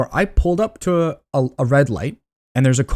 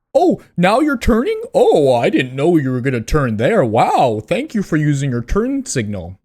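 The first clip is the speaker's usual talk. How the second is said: sarcastic mock; 2 semitones higher than usual. Mocking a late-signalling driver.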